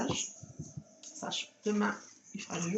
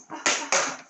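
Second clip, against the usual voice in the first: sharp breathy ah, ah; pained gasps; 4 semitones higher, 5 dB louder than usual. Real, not acted. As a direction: gasp at the claws. Cat's claws digging in.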